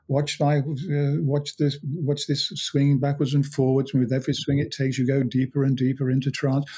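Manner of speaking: a light hint of a harsh German accent, picking up pace at the end; mock old-school German hypnotist, lightly put on. Classic hypnotist coaxing a client to watch the swinging watch, in a lightly mocked harsh German accent. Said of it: "said with a very harsh German accent".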